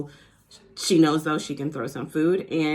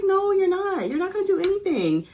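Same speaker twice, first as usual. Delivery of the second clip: higher, louder firm scold; firm scolding friend; 14 semitones higher, 3 dB louder than usual. Retold or imitated. Friend telling furious Teresa to stop, higher firm scold. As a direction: shut her down before she starts.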